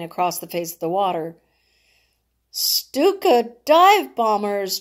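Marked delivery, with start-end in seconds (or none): 2.5-4.8 slow, drawn-out yelled warning. Acted. Jonathan yelling as bombers dive, alarmed. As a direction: cry out the bombers' name. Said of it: "Jonathan yelled".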